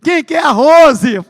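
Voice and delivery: high, loud, slow teacher's question; teacher asking. Retold or imitated. Teacher calling roll asks the class who Rose is, loud and high. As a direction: call out the question like a puzzled teacher.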